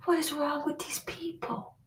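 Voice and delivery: exasperated whisper. Real, not acted. To viewers about the drama, an exasperated whisper. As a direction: hiss it under the breath in disbelief.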